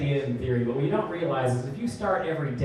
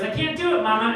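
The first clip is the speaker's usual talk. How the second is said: put-on whiny little boy; 5 semitones higher than usual. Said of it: "He just goes".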